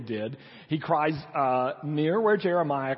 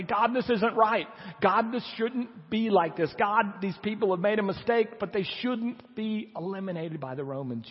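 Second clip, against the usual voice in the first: crying out in protest; 5 semitones higher than usual. Acted. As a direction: plead the case upward, pitched high. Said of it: "it's appropriate to cry out to say".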